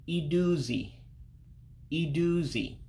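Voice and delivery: iduzi with each i said as ee. Shown as a demonstration. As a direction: model iduzi slowly as ee-doo-zee, then repeat. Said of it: "the I's make an E sound".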